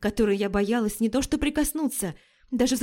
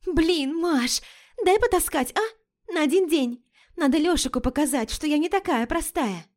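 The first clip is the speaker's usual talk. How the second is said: put-on pleading girlfriend; 7 semitones higher than usual. Лика выпрашивает сумку.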